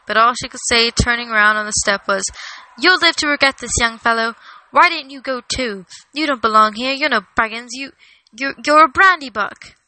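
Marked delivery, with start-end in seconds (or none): 2.8-9.7 lightly voiced indignant parting shot; a touch of huffy outrage, stumbling before the final jab; indignant Lobelia. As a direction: fumble for a crushing insult, then land it hard.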